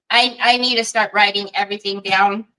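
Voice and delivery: talking around a mint; mouth full. Real, not acted. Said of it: "I have a mint in my mouth".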